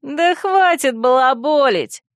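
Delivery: put-on high ringing young girl cutting in; ringing girl's voice. A narrator's reading. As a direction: snap in like a bold young girl. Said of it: "перебил его звонкий девичий голос".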